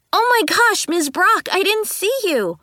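hammed-up gasp of surprise; dramatic cry. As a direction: overplay the innocent apology. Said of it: "I cried dramatically".

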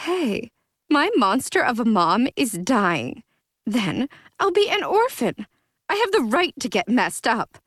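put-on drunk defiance.

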